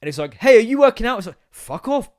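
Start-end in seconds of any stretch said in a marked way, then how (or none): 0.3-1.2 high, loud, eager prompt; pitched-up pushy gadget voice; frantic smartwatch. Acted. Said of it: "frantically tries to guess". 1.5-2.2 high-pitched annoyed dismissal; exasperated but not shouted; irritated retort. Acted. First retort to the watch.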